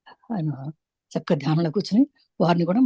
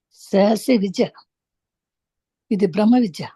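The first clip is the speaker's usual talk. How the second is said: measured meditation-teacher delivery with long pauses; unhurried spiritual instruction, phrase by phrase; guided meditation; 3 semitones higher than usual. Real, not acted. Leads a breath meditation.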